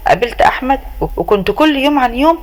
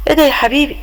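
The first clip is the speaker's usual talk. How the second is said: shocked outcry; 5 semitones higher than usual. Acted. Mother-in-law finds son tied.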